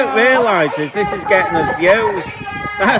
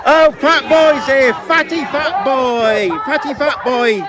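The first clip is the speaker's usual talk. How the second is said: taunting; 3 semitones higher than usual. Real, not acted. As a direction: jeer at him like a playground bully. Taunting a protester.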